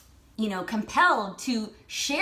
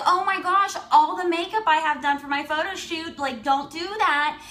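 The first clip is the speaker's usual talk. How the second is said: pleading oh-my-gosh protest, raised pitch; mock exasperated plea; 4 semitones higher, 3 dB louder than usual. Woman begging stranger not to ruin photo-shoot makeup, mock exasperated.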